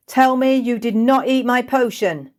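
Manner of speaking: high, loud and desperate; frantic shout. Acted. Kesa shouting to Jay from the stairs, frantic. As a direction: yell it while racing upstairs.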